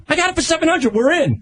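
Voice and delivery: proud kid bragging, lightly played; mock excited. Sal retelling telling his agent the deal, mock excited.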